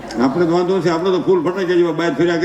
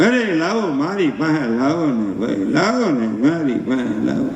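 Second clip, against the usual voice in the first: put-on lower, slow old grandpa voice; an old man gently coaxing for the baby; doting grandfather; 4 semitones lower, slower than usual. Grandfather asking for the crying baby, low and slow.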